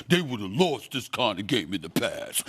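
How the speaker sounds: slow mock pundit voice, a touch mocking; imitating pundits. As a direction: drag it out like a smug pundit.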